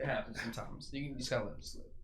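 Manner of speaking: breathless after holding in a laugh; words squeezed out of breath. Real, not acted. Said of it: "are you out of breath?".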